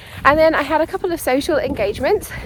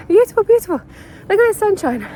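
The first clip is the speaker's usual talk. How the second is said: delighted; 8 semitones higher, 4 dB louder, faster than usual. Real, not acted. Delighted at the sunshine.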